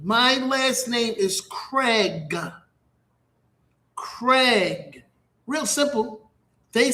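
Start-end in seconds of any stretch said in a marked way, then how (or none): 0.0-5.0 slow, drawn-out "Craig" with a K at the start; teaching his surname. Shown as a demonstration. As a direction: spell it out by ear, "Craig", slowly. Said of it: "I have to teach you how to say".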